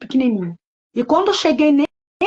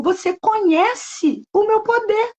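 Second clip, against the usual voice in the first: mysterious voice; 9 semitones higher, slower than usual. Retold or imitated. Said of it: "aquela voz todo dia falava comigo".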